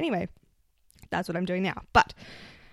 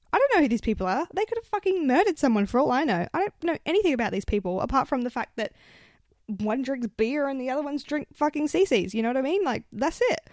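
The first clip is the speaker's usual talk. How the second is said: higher, emphatic venting; retold pissed-off rant; 4 semitones higher, 3 dB louder than usual. Stranded among her friend's mates, retold indignant rant. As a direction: re-enact an indignant rant, pitch up. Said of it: "So I got pissed off".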